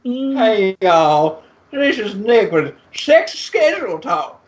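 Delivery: mock Southern drawl announcing a show; southern accent. Cohost jokingly hosting sexy schedule talk in a Southern accent. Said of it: "I could do it with my southern accent".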